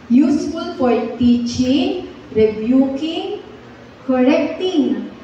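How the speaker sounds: each word slowly drawn out; slow memory verse chant; slow recitation. Shown as a demonstration. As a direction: recite it slowly so they can follow. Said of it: "sabay-sabay po tayong mag-memorize".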